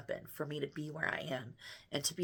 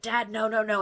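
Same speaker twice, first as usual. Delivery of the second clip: retold fit; 5 semitones higher, 6 dB louder than usual. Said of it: "I throw a fit".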